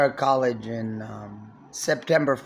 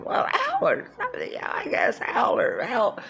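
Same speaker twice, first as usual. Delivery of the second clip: whispered aside; 9 semitones higher than usual. Real, not acted. Muttering unsure of name.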